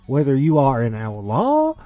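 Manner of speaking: put-on podcast host hamming up a cowboy accent to open the show; hammed-up cowboy accent. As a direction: welcome the cowpokes like a Texas rodeo announcer. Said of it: "We gotta drop the accent".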